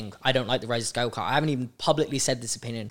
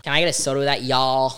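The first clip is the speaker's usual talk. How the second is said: put-on Southern accent. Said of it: "go to Southern accent from there".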